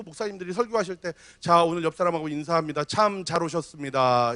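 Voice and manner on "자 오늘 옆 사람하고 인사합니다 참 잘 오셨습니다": low, dutiful, staring-ahead greeting; rote greeting. Retold or imitated. Pastor mocking a dull pulpit greeting, low and dutiful. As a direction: mumble the welcome without looking at anyone. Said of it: "이렇게 하면".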